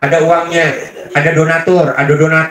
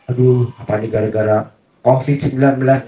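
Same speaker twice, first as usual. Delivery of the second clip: a light, whiny grumble about covid; mock complaining; 4 semitones lower than usual. Complaining about covid, a mild mock whine. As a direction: play the complaining type, mildly sighing. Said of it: "jangan ngeluh".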